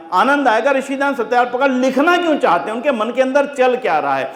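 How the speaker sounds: high, animated preacher's voice; fervent preaching. Real, not acted. Preacher urging listeners to read the book's preface, fervent. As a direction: lift it high to spark their interest. Preaches with fervour about a book.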